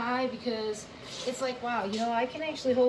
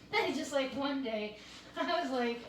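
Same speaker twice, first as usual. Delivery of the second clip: real chuckle breaking into the words; light laugh while talking, a little higher and softer; amused chuckling; 4 semitones higher, 4 dB quieter than usual. Real, not acted. Recalling one day at squats to viewers, chuckling.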